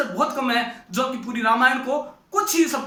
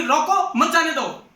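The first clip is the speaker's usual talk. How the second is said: रोको alone, pause, then मत जाने दो together; pause after रोको; 2 semitones higher than usual. Shown as a demonstration. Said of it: "तो पुलिस जल्दी में बोली". (रोको के बाद ठहराव, मत जाने दो साथ में)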